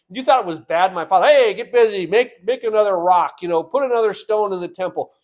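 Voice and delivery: a lightly hammed-up bossy king; harsh king. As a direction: play the arrogant king bossing his people. Preacher voices the harsh king.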